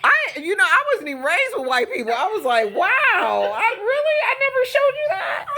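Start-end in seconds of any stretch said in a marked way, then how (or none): 2.8-5.4 high-pitched, laughing disbelief; amazed. Retold or imitated. Retelling her reaction to her ex-husband, amazed. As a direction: marvel at it in a hammed-up retelling.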